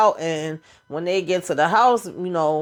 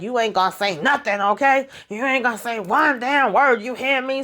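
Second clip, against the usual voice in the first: retold threat; 4 semitones higher than usual. Carlton grabs Ashley up to silence her, mock threatening. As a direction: lay down a warning in a raised pitch.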